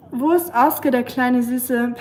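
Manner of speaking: zärtlich zum Hund gesprochen; cooing to the dog. Real, not acted. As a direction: coo sweetly at the little dog. Cooing to her pet dog.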